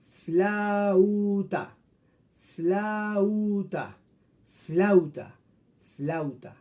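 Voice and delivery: flauta with a and u both heard; diphthong demo. Shown as a demonstration. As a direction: say flauta letting a and u glide together. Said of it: "Cada vocal mantiene su propio sonido". (flauta con a y u, cada una con su sonido)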